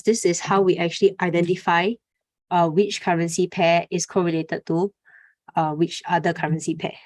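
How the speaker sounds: slightly winded, catching breath. Real, not acted. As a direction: talk while short of breath. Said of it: "let me catch my breath".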